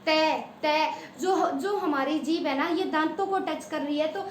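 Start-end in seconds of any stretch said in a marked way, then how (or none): 0.0-0.9 तै said twice, tongue on the teeth; teacher demonstrating तै; sound demo. Shown as a demonstration. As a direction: sound out तै, तै clearly. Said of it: "अब तै बोलो".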